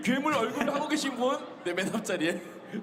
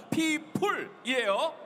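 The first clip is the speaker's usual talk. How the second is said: drawn-out announcement; 3 semitones higher, much slower than usual. Real, not acted. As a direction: stretch it out like an emcee. Announcing game name to crowd.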